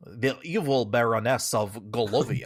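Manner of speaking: put-on weird Swedish-French hybrid accent; over-the-top French accent. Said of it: "like, super French all of a sudden".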